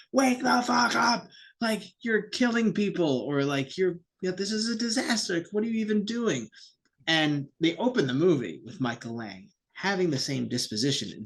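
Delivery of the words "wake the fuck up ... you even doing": exasperated yell. Retold or imitated. Crowd shaking the promoter, mock yelling in exasperation. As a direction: shake some sense into him with your voice. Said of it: "shake him by the shoulders and be like".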